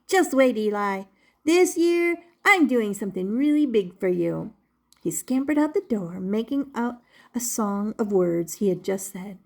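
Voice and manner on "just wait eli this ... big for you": eager Punchinello. Acted. Puppet promising his maker a big surprise, eager. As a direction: burst out with excitement.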